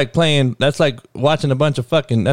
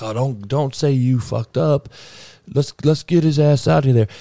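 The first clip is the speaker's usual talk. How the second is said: whiny mock voice of her fans, pitched up; mocking her supporters; 4 semitones higher than usual. Ranting about a podcaster's fans, mimicking them mockingly.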